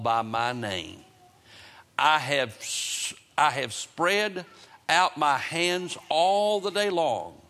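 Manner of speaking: slow, deliberate Bible reading with long pauses; scripture reading. Acted. Preacher reading God's words to the congregation, solemn scripture reading. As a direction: read it out weightily, drawing out key words.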